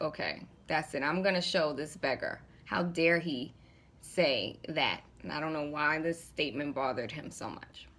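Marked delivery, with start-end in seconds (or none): 0.0-5.0 a hint of a vexed king, slightly lower; the king muttering his grudge, a touch low; lightly voiced angry king. King vows to punish the beggar, mildly angry and low. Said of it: "the Oba is pissed, and he's like".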